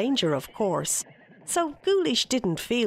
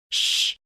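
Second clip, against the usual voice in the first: hushing shh. Acted. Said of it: "said the fairy leader".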